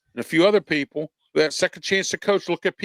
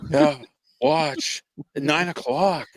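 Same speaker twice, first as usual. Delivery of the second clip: creepy TV announcer; slower than usual. Retold or imitated. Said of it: "the announcer on Halloween three when he says".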